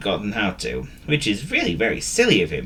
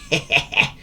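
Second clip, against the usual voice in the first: sneaky chuckle. A narrator's reading. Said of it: "he chuckled".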